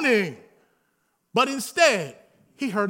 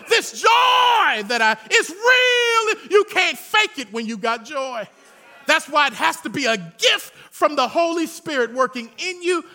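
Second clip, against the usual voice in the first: preaching at full force; 2 semitones higher than usual. Real, not acted. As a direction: lift it up and shout the joy. Preacher's climax.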